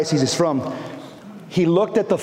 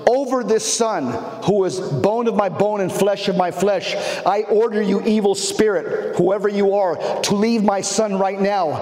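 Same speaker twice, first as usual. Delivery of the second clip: steady, commanding exorcism prayer, slightly raised; recited deliverance prayer; 3 semitones higher than usual. Retold or imitated. Father ordering the demon out of his son, commanding prayer. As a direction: recite it as a firm command to a spirit.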